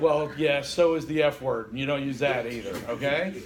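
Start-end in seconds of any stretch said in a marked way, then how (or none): 0.0-1.7 louder retort, yeah so is the F word; retorting loudly. Retold or imitated. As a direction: snap back a louder comeback. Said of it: "the next thing I went".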